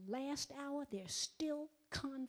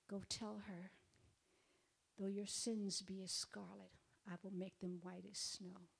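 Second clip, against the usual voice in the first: quiet voice of God; 2 semitones lower, 5 dB quieter than usual. Retold or imitated. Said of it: "Very quietly".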